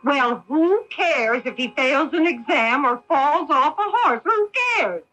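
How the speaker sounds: shrill-edged scolding wife; like a shrew. Acted. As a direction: snap it out like a nagging shrew. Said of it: "talking like a shrew".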